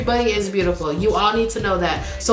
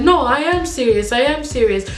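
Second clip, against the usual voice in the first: eager, pressing marriage plea; imitating a pushy, smitten suitor; insistent suitor; 4 semitones higher than usual. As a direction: push the proposal, repeating it urgently.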